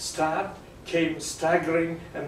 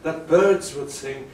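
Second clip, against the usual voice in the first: romantic verse recitation. Acted. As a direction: speak it like a lover gazing upward. Recites Romeo's balcony speech.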